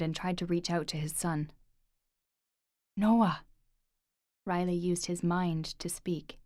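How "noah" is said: calling out. Acted. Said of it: "he called again".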